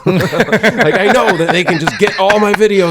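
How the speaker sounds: high-pitched retold tirade; indignant rant. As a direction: rail at them in a worked-up comic rant. Retold rant at phone companies.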